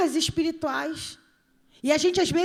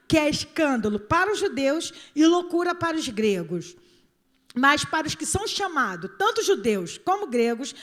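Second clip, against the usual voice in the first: scripture reading. Acted. Reads scripture emphatically.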